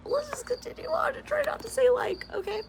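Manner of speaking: a hushed conspiratorial whisper. Real, not acted. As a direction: whisper it like a secret pact. Half-whispered aside to viewers.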